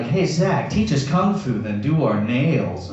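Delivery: mock girls' voice. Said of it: "Girls would come up to me and be like".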